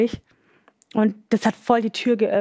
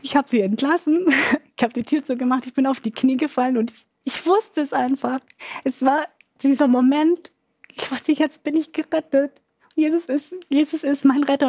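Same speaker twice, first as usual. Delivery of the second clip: higher-pitched, moved retelling; emotional testimony; 4 semitones higher than usual. Real, not acted. Recalling the moment Jesus became my saviour, emotional. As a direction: let real emotion lift the pitch. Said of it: "werde immer wieder emotional".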